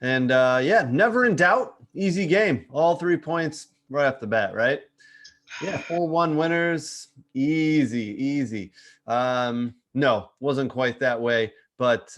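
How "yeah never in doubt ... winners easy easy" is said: mock-confident, starting high and punchy; breezy fake certainty, as if it was effortless; tongue-in-cheek. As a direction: play up the easy win as a joke. Joking about a hard-won game.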